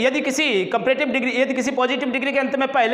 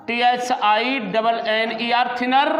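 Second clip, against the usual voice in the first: slow spelling; slower than usual. Shown as a demonstration. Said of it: "अंतिम अक्षर को दो बार लिखा जाएगा".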